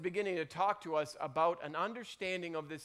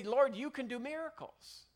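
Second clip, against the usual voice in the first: higher, eager praise piling up; gushing imagined Peter; 6 semitones higher than usual. Retold or imitated. Peter imagined gushing over Jesus, high and eager. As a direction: flatter him like a starstruck fan. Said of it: "He would say".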